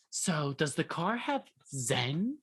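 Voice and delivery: slow, dreamy question; spacey customer. Retold or imitated. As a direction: drift through it slowly. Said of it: "I'm talking about, like".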